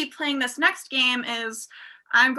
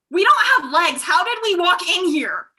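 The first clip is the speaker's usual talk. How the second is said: higher, louder mock alarm; alarmed sharks; 4 semitones higher, 4 dB louder than usual. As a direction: blurt out the sudden baffling realization. Sharks realise they lack legs.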